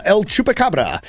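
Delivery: Spanish-accented name of a creature. Real, not acted. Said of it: "saying it with such a Spanish accent".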